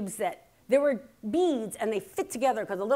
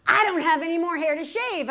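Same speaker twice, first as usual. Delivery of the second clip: higher, louder mock outburst from mother; loud indignant retort; 7 semitones higher, 7 dB louder than usual. Mother answering daughter's question about razors, loud indignant retort. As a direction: belt out mom's blunt comeback.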